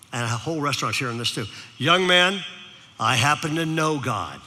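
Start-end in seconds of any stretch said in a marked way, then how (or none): 1.8-4.4 put-on slow, low, gentle old man; kind old man. Old man comforts the crying boy, slow and gentle. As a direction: reassure him slowly.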